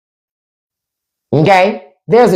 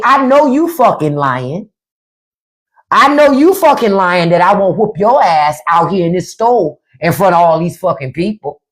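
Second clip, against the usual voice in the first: mother's silent threat. Retold or imitated. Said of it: "That look say".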